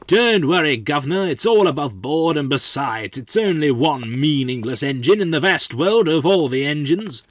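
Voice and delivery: breezy reassurance. Acted. Worker to the governor after handing off business, breezy and loud. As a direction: wave away the boss's worries loudly. Brushing off a rebuked boss.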